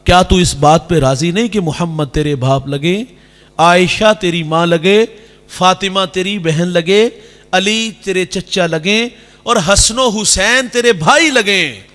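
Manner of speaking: slow, loving words to an orphan; slow, tender prophetic reassurance; tender consolation. Retold or imitated. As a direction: comfort the weeping child. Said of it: "میرے کریم آقا فرماتے".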